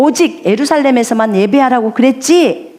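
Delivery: high, taunting dare; mocking challenge. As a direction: goad them like a swaggering envoy. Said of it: "이렇게 도전합니다". (높고 조롱하는 도전)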